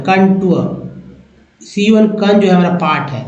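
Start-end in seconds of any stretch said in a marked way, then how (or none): 0.1-0.6 कंटूर said as "kan-TOO-ur"; demonstrated pronunciation. Shown as a demonstration. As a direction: model कंटूर clearly, in two parts, kan and tooar. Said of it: "आप देखिए कैसे पढ़े".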